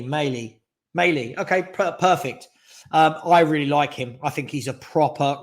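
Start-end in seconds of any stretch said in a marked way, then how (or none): 0.0-1.4 "Maley" said like "male" plus an ee; sounded-out pronunciation. Shown as a demonstration. Streamer trying a viewer's pronunciation, "Maley" as MAY-lee. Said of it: "is pronounced like male, just with an E".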